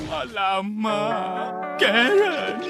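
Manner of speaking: slow, very soft uh-oh; dismayed whisper. Acted. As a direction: breathe it out in dread. Realising wife is angry.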